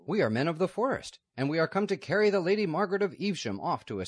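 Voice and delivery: loud, high rough outlaw demanding entry; outlaw at the gate. Acted. Outlaws at the convent grille demanding the girl, loud and urgent. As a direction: boom it through the grille, urgent.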